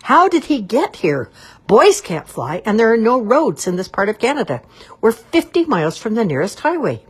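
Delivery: high loud furious shouting; angry shout. A narrator's reading. Cob shouting at his wife about the intruding boy. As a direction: shout it, outraged. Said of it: "but was beginning to shout".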